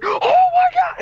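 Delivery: shrill, high-pitched shouting, very high yell. Act out his reaction after getting three in a row, imitating Phantom Lord yelling. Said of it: "he's just yelling".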